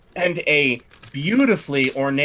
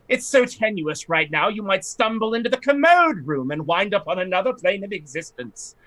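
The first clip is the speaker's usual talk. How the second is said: a slightly raised, haughty lady's voice; fussy noblewoman; 4 semitones higher than usual. Acted. Lightly raised voice as the lady fretting to the party about her estate. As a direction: play the put-upon aristocrat lamenting her estate.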